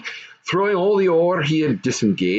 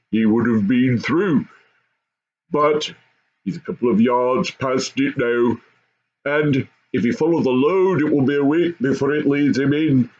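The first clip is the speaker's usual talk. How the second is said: lightly voiced goblin father; 3 semitones higher than usual.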